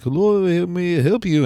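high, slow operator voice; slow sing-out phone operator. Acted. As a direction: put on a drawn-out operator greeting. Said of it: "operator gets on. He's like".

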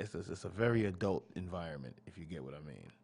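low, hushed creepy innuendo; sleazy voice, dropping to a murmur; sleazy pickup line. Acted. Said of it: "This nigga put the creep voice on".

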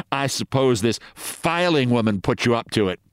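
mild sarcastic jab; lightly mocking, needling her husband. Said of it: "You needn't get sarcastic".

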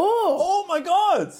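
amazed. Real, not acted. Host reacts to news they predicted, drawn-out amazed. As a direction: stretch it out in amazement. Female Bond news comes true.

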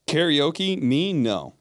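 high, loud questioning, dropping to a firm no; surprised denial. Real, not acted. Player denies being at after-party karaoke, surprised.

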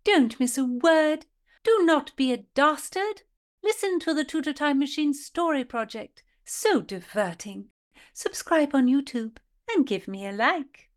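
put-on high, prim old-fashioned lady; prim Tudor lady. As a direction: play a haughty Tudor gentlewoman. Philadelphia Carey Tudor persona.

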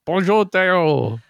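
drawn-out French greeting; French accent. Acted. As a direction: introduce a guest in mock French. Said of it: "do it in a French accent".

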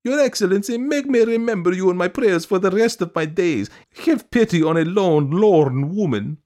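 high, loud piteous wail; hammed-up lamenting plea. A narrator's reading. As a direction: wail for pity, stretching the last words. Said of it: "wailed Madame Stuchkin".

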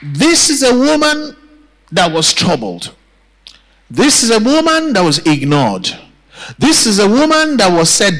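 rousing sermon build, each opening lifted high; preaching refrain. Real, not acted. Preacher recounting the ignored woman's trials to the church, rousing. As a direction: drive the repeated phrase home to the congregation.

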